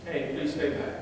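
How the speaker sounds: soft, low polite request; buttered-up politeness. Shown as a demonstration. Coach models a polite warning for the camera, soft. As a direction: gently ask someone to keep away. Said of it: "butter it up a little bit".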